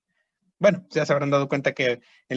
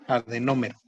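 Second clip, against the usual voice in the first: Adenómero in a lower, falling tone, NÓ stressed; stress on first O; 4 semitones lower than usual. Shown as a demonstration. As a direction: repeat Adenómero carefully, accenting the first o. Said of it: "y con acento en la O".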